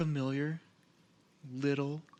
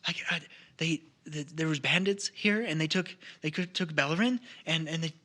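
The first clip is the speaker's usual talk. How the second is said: frightened stammer; 4 semitones higher than usual. Acted. Frightened gnome stammers news.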